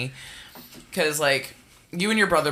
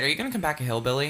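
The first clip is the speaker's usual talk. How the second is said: fast, mocking taunt; teasing jab; faster than usual. Girlfriend teasing boyfriend about moving away, fast mocking taunt. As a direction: needle him playfully. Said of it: "I was like".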